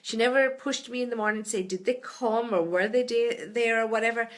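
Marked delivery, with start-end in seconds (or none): 1.6-4.3 Tipperary accent. Real, not acted. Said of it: "There's my Tipperary accent coming out when I don't pronounce my T H's".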